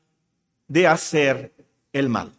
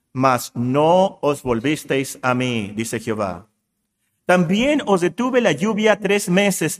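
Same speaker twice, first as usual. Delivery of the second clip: scripture reading. Acted. Reads scripture aloud as God speaking.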